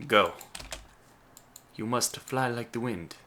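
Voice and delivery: a hint of a grand, theatrical command; lightly hammed-up order to the ship; mock-heroic command, barely voiced, no real accent; odd put-on voice. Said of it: "I don't know why I talked like that".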